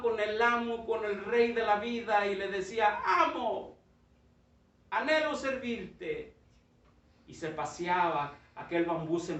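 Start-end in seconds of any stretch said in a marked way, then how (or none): 3.0-6.3 slightly higher, eager voice of a proud bamboo. Acted. Bamboo eagerly offering itself to its master, lightly voiced. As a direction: offer yourself to the master, slowly.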